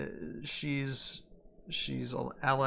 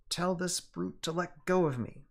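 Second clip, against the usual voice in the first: shouting; 6 semitones higher, 4 dB louder than usual. A narrator's reading. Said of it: "the girl shouts".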